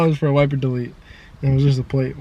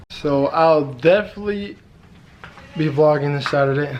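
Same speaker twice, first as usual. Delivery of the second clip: talking with retainers in; words slurred around retainers. Real, not acted. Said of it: "Sorry, I got my retainers in, so it's kinda hard to talk".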